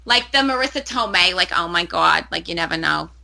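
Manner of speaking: Marisa Tomei style Jersey accent; casual New Jersey accent. Shown as a demonstration. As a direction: toss it off like a Jersey girl. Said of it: "I can totally do a New Jersey accent".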